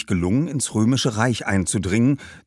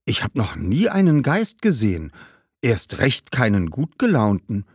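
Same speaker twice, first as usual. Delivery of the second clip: put-on boy marvelling, slightly raised pitch; a touch of wonder; astonished; 2 semitones higher than usual. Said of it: "fragte Augustinus erstaunt". (leicht erstaunter Junge)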